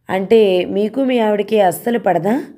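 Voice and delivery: అస్సలు pressed firmly, question asked slowly; stress on అస్సలు. A narrator's reading. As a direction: lean hard on అస్సలు. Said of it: "అస్సలు అనే పదాన్ని నొక్కి పలుకుతూ". (అస్సలు పదాన్ని నొక్కి పలకండి)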